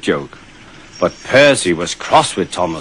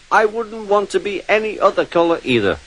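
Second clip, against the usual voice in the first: small engine Percy; 9 semitones higher, 4 dB quieter than usual. A narrator's reading. Percy voiced in a story.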